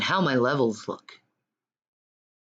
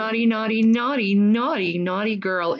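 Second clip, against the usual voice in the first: higher, playful repeated taunt; teasing singsong; 6 semitones higher, faster than usual. Pretend. Teasing chant at G-Man.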